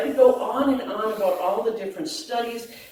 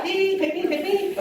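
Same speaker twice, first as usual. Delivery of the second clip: mock eager; 10 semitones higher than usual. Joking about looking younger.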